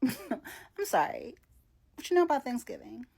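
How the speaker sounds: laugh, then a quick jab; amused teasing question; laughing disbelief. Real, not acted. Teasing friends back home about Thanksgiving, laughing.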